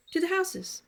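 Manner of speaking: put-on very high little-girl reply; small girl's voice. Child telling the troll where she goes, very high girl voice. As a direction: answer simply like a four-year-old.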